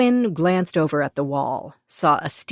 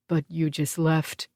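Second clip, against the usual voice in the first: sobbed; 3 dB quieter than usual. A narrator's reading. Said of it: "the big monk openly sobbed".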